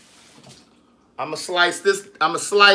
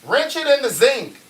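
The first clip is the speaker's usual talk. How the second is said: higher and louder, sink said as zinc, Baltimore style; hammed-up Baltimore rinse it in the zinc; 10 semitones higher, 7 dB louder than usual. Shown as a demonstration. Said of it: "but the zinc".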